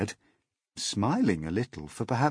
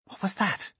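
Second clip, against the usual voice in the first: quick, higher question; startled, listening; sudden alarm; 11 semitones higher, 3 dB quieter than usual. A narrator's reading. James to the others, quick and startled. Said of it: "he asked quickly".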